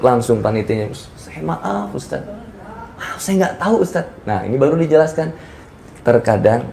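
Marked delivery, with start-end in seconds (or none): 1.2-4.3 soft, high-pitched mock apology; hushed, contrite little voice; imitating meek apology. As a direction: apologise sheepishly in a small high voice. Acted contrite apology from organiser.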